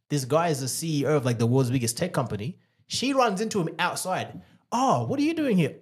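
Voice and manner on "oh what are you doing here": high-pitched mock surprise on bumping into someone; surprised greeting. Ex runs into him outside, imitated surprise.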